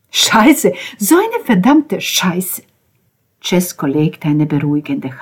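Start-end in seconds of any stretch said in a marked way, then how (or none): 0.1-2.6 higher, loud cursing; angry outburst. A narrator's reading. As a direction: curse it out in frustration. Angry doctor-scene outburst, cursing.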